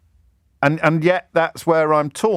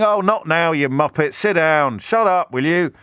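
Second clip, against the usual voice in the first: annoyed heckle; 3 semitones higher than usual. Retold or imitated. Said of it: "one of the people shouting".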